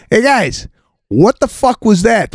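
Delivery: hammed-up panicked passenger; mock alarmed shout. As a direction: ask like you're spooked by a bump. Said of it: "knock on the door and go".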